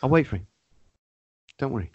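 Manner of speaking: passive aggressive. Retold or imitated. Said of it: "the passive aggressive pause".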